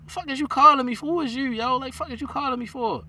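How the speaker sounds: high, loud, indignant retort; retold outrage. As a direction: snap back in disbelief at the caller. Retold angry reaction to brother's call.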